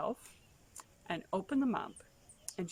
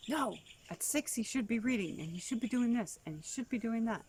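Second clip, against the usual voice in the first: insistent school staff; 5 semitones higher than usual. Retold or imitated. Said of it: "school insisting".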